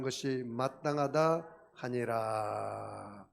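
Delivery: slow solemn reading of the verse; scripture reading. Acted. Preacher reading verse thirty-one to the church, slow and solemn. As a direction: read it out slowly like holy text. Reads scripture aloud to congregation.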